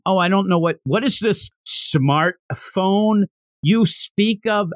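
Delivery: lightly mocked puzzlement, slowing right down; a hint of a stilted old-world statesman; baffled ancient chancellor. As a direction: drag out the unfamiliar word in mock wonder.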